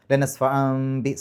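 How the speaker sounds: slow, drawn-out ല നസ്ഫഅം ബി easing into the m; slowly. Shown as a demonstration. Teacher slowly modelling the shift into meem for students. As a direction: stretch the m gently before ബി. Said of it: "സാവകാശം മീമിലേക്ക് പോവുക".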